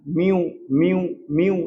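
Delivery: slow, separated म्यू, gliding into a long ऊ; demonstrated यू sound. Shown as a demonstration. Teacher showing the यू sound, slowly demonstrating म्यू. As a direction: isolate म्यू from म्यूजिक and repeat it. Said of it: "जब बोलते हैं म्यूजिक".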